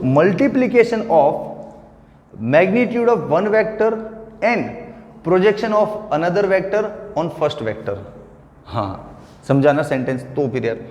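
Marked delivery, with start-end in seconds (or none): 0.0-8.0 spelling it out word by word for notes; slow, measured classroom dictation with long pauses. Acted. Teacher dictates the definition to students, slow and deliberate.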